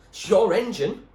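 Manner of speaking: loud, high yell back. A narrator's reading. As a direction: throw it back at him, loudly. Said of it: "she yelled back".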